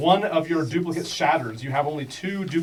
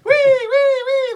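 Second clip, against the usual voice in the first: gleeful jellyfish; 10 dB louder, much slower than usual. Acted. Jellyfish bounced like beach balls.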